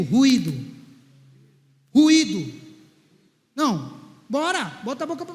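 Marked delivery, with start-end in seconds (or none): 0.0-0.5 loud call for the crowd to repeat; preacher's loud call, lower; call and response. Shown as a demonstration. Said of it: "Repita comigo". 1.9-2.5 louder call to repeat; crowd-leading shout. Shown as a demonstration. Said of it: "Repita comigo".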